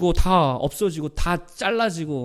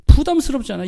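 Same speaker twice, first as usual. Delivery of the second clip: usual speaking voice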